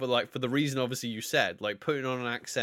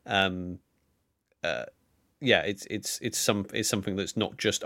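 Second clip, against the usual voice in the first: usual speaking voice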